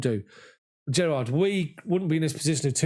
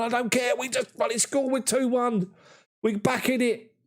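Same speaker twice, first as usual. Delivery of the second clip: retold excited yell; 9 semitones higher than usual. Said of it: "I'm going".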